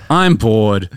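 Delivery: bored. Acted. Jim complaining about TV, bored. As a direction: sigh it out, bored. Acted bored friend opening skit.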